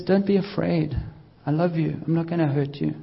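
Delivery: soft, gentle comfort as God; tender reassurance. Retold or imitated. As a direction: hush them, a soft promise. God's comforting words voiced.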